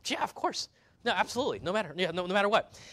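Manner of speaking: high, quick eager yes; eager agreement. Retold or imitated. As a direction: overeager disciples promising anything. Disciples eagerly promise Jesus.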